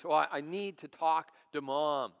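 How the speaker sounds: mild insistence of an upset daughter. Retold or imitated. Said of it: "she's really getting upset".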